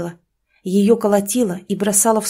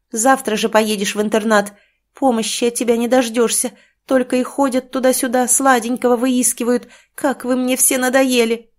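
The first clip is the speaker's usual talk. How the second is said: angry threat; 4 semitones higher than usual. Acted. Mother threatening daughter.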